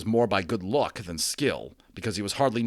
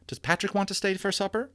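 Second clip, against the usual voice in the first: mother's voice; 11 semitones higher than usual. Acted. Mother asks Omri.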